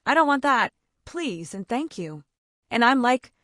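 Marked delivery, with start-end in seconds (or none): 0.1-2.2 put-on child's memorized script. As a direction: recite it like a learned line. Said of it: "he said this memorized script".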